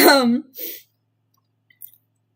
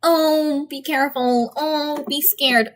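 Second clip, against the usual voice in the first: higher-pitched mock-spooky "oh" warning; 4 semitones higher, slower than usual. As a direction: put on a drawn-out fake caution. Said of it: "I'm not trying to be like".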